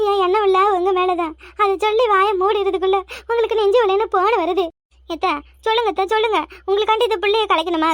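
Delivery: hammed-up tearful pleading; put-on wailing lament. Daughter-in-law offers to sacrifice for mother-in-law, staged crying. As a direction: wail it out, stretching the end into sobs. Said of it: "அழுது ஒப்பாரி வைக்கிறா".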